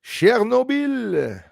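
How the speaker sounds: Chernobyl as "sher-no-BEEL", high and very slow; drawn-out pronunciation. Shown as a demonstration. Host trying the name out for viewers, drawn-out pronunciation. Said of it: "I should be pronouncing it right".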